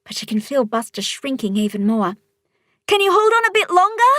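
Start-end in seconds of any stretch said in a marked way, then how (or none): 2.9-4.1 put-on high, fast, begging girl; a girl begging her friend to hold on, pleading. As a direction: plead with him urgently. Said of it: "Polly pleads".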